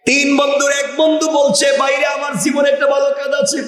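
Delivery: high, sustained chanting sermon voice; melodic preaching. A narrator's reading. Preacher telling a crowd of three trapped friends, melodic preaching.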